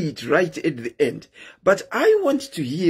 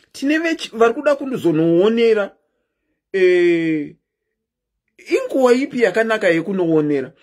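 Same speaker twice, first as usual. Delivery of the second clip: put-on squealing baby talk aunt; 2 semitones higher than usual. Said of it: "pour in Auntie's voice".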